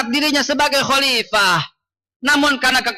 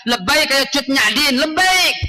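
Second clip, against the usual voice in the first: rallying cry. Shown as a demonstration. Preacher urging cries for Indonesian heroes, mildly raised rallying call. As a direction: call it out as a slogan, lifting the final call. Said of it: "Teriak juga dong untuk pahlawan Indonesia".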